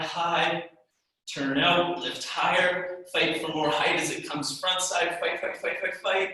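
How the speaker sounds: strained, shaking voice mid-exercise. Real, not acted. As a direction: voice trembling from muscle effort. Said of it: "My voice is shaking while I do these".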